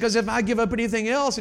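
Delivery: high, loud acted complaint; exaggerated retold despair; mock tearful outburst.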